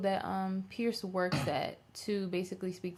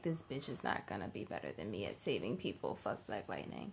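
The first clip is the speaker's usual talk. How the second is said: villainous mayor; 10 semitones lower, 12 dB quieter than usual. Retold or imitated. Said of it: "He's like".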